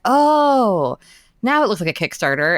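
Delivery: mock a delighted discovery; impressed surprise. Editor reacting to the finished graphics, impressed surprise.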